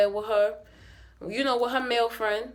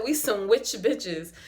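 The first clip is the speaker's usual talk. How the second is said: quoting Gigi; slower than usual. Retold or imitated. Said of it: "Gigi said".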